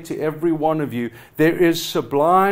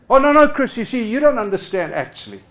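mock self-centred excuse. Preacher mimics a member who only comes when convenient, lightly mocking. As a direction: lightly voice a smug churchgoer brushing off the preacher. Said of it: "I love all of that unbiblical, unhelpful, narcissistic language".

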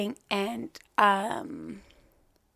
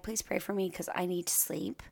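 whispering; 8 dB quieter than usual. Retold or imitated. Whispered quote in retelling.

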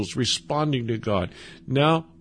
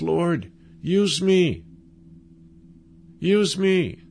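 slow, raised, earnest plea; fervent plea; 4 semitones higher, slower than usual. Acted. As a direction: stretch it out as a longing prayer. Heart that says to God.

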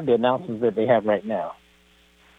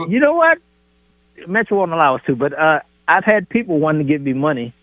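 ordinary talk

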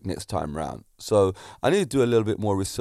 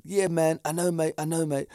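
imitated English accent; 4 semitones higher than usual. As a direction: play the apologetic driver with a hint of English accent. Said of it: "talking in this English accent".

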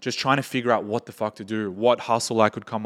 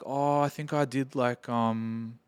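quiet, offhand and unsure, like an awkward dude; awkward offhand guy; 6 dB quieter, slower than usual. Retold or imitated. Imitating the awkward DJ at a party, softer and offhand. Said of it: "like, most awkward dude ever".

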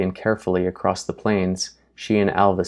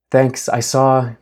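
hurried reply; 5 semitones higher, 5 dB louder, slower than usual. Acted. Grace rushed under attack.

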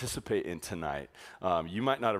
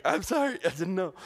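much higher, sheepish mock apology; 11 semitones higher than usual. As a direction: play the flustered co-leader. Co-leader apologizing.

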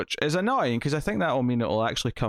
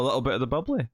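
playful quote; faster than usual. Retold or imitated. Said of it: "what my wife now calls".

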